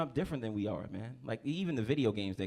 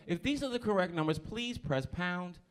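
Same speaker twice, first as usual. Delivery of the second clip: higher, slow automated phone voice; operator again; 5 semitones higher, slower than usual. Retold or imitated. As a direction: stretch it like a phone robot. Operator repeats.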